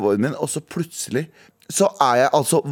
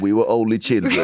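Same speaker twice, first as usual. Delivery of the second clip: film voiceover; 6 semitones lower than usual. Retold or imitated. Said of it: "en sånn stemme som går i bakgrunnen".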